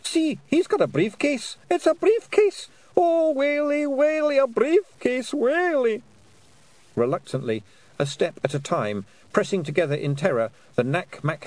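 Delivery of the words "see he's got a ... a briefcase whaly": high, panicky Scots whimper; terrified of a briefcase; whimpering pixie. A narrator's reading. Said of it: "whimpered a Pixie".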